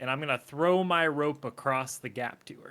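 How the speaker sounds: plain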